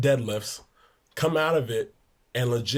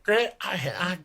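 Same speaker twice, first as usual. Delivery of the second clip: high, slow mock exasperation; exasperated coach; 5 semitones higher than usual. Coach Barnes sputtering at Grant, high slow mock exasperation. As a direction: sputter like a fed-up old coach. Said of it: "He's like".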